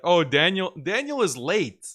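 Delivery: high, mocking nagging voice; mock whiny complainer. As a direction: parody a fussy viewer who is annoyed he is late.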